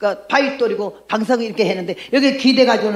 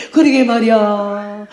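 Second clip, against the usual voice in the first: slow heartfelt admission; slower than usual. Retold or imitated. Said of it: "입으로 시인하자마자".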